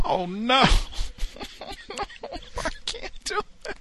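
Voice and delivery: high-pitched helpless laughter breaking through the words; can't stop giggling, voice squeaking up; laughing fit. Real, not acted. Host cracks up reading a listener's email, laughing. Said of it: "I shouldn't be laughing".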